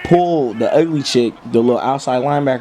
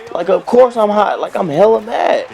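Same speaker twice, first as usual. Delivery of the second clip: mock angry rant; 9 semitones higher than usual. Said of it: "I'm like".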